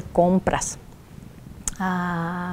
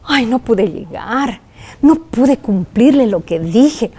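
lamento recordado; slower than usual. Retold or imitated. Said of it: "mis ojos se llenaron de lágrimas".

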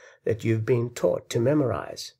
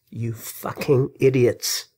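worked-up insult; 3 dB louder, slower than usual. Real, not acted. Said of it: "I'm getting worked up".

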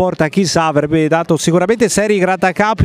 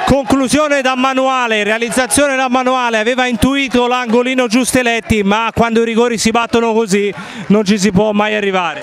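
breathless italian goal commentary. Real, not acted. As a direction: hail the finish with energy. Goal commentary after penalty. (telecronaca entusiasta del gol)

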